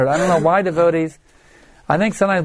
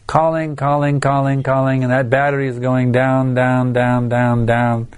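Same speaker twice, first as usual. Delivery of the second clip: steady monotone chain, sinking lower; relentless repetition; 3 semitones lower than usual. Retold or imitated. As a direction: repeat it without a break, gradually dropping in pitch. Acting out endless calls, dying battery.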